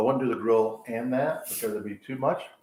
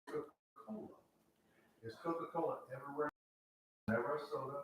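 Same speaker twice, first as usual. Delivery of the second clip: hushed, softer ad-read tagline; mock commercial tagline; 4 semitones higher, 13 dB quieter than usual. Joking to friends about Georgia soda, a soft mock ad tagline. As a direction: deliver it like the hushed closing line of a soda ad. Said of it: "that was just a commercial".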